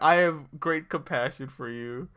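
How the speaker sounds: slow, deliberate imitation of a pitying speaker; measured put-down. Podcaster quoting her sick burn on Kevin, slow and deliberate. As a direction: draw out each word, mock-solemn.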